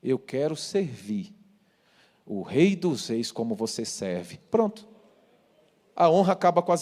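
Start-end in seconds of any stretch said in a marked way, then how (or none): 0.0-4.4 crying father. Retold or imitated. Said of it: "Meu pai chorando disse".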